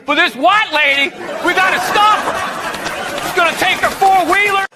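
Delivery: mock the hypocrite complaining about the white lady; mock racist guy. Comedian mocking racist voters as they dismiss the candidate. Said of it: "They were fine".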